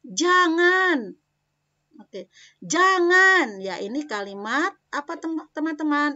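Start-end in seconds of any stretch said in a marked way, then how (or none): 0.1-1.2 high, loud "Jangan" falling sharply; forbidding tone. Shown as a demonstration. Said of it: "Gunakan intonasi yang benar". 2.6-3.6 high, loud "Jangan" falling sharply; forbidding tone. Shown as a demonstration. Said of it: "Gunakan intonasi yang benar".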